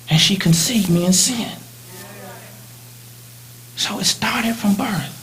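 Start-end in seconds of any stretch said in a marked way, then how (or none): 3.8-5.1 slow whispered line; hushed, slow confession. Real, not acted. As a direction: breathe it out softly.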